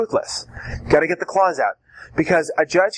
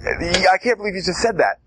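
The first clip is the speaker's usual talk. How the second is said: mock disbelief. Shown as a demonstration. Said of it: "the judge hopefully will be mirroring you".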